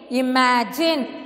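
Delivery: "imagine" slowly as i, ma, jin; "imagine" sounded out slowly for learners; syllable by syllable. Shown as a demonstration. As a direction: give "imagine" three even beats. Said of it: "three sounds".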